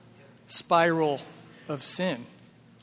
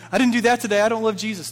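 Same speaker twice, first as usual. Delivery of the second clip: anxious self-judging; 4 semitones higher, 4 dB louder, faster than usual. Retold or imitated. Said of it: "writing it all down and going".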